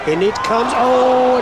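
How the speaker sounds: sudden excited rise on the miss; excited call. Real, not acted. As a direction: gasp as the putt slides by. Commentator calls near miss.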